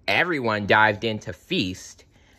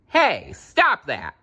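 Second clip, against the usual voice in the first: higher-pitched, drawn-out mild yell; yelled protest; 6 semitones higher, 3 dB louder, slower than usual. A narrator's reading. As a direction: protest slowly in a raised voice. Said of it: "yelled Littlefoot".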